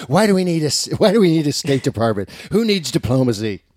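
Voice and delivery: gruff mock Trump voice; grumpy old man. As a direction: play a grumbling old man. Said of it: "My Trump voice".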